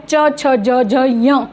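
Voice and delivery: च, छ, ज, झ, ञ one by one, ending on nasal nya; teacher modelling च, छ, ज, झ, ञ; pronunciation demo. Shown as a demonstration. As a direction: recite च, छ, ज, झ, ञ as separate sounds from the palate. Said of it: "एक सा ही उच्चारण स्थान".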